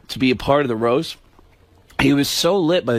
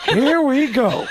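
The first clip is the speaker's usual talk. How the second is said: Pacino impression; 8 semitones higher, slower than usual. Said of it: "the Pacino looked and went".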